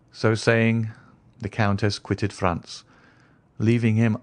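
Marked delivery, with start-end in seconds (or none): none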